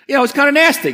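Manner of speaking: indignant aside. Real, not acted. Reacting to bosses' treatment.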